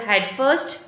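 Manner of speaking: "head first" with the weight on first; stress on FIRST. Shown as a demonstration. Teacher giving an adverb example, stress on first. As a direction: stress the final word, first. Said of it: "final element which is stressed".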